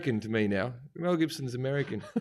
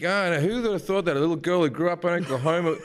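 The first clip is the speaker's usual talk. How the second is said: mock Oscar speech. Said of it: "or like".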